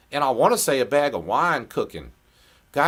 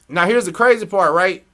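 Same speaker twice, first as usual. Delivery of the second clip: excited build-up; 9 semitones higher, 8 dB louder than usual. Real, not acted. Building to story climax.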